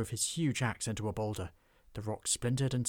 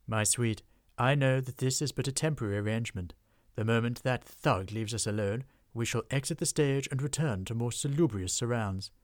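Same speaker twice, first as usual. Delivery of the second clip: louder, grand reassurance; gentlemanly troll; 5 dB louder than usual. Acted. Troll husband reassuring his wife with loud gentlemanly grandeur.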